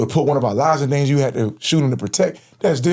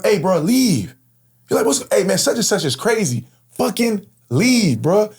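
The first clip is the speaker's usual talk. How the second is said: urgent plea; 9 semitones higher than usual. Retold or imitated. Urging driver to flee.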